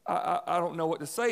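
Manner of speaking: lightly acted stammer, at a loss; mock tongue-tied reply. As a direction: stumble on the first word, feigning no answer. Acting out being caught without an answer.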